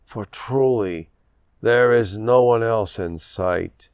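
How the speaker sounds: measured poem reading with deliberate line breaks; poetry reading. A narrator's reading. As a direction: read it as verse, pausing after each phrase. Reads own poem to audience.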